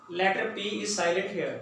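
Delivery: each word spaced out slowly; slow and deliberate. Shown as a demonstration. Teacher stresses the silent letter for students, slowly. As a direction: spell the rule out word by word. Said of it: "teacher states spelling slowly".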